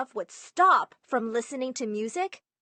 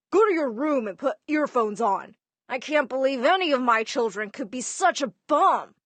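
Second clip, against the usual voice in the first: retold dad yelling, a bit louder; 4 dB louder than usual. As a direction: play the annoyed father snapping at his kid. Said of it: "my dad would yell at me".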